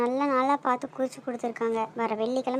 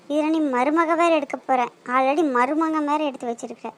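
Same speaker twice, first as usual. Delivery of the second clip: scolding; 3 dB louder than usual. Acted. Scolding brother for upsetting her.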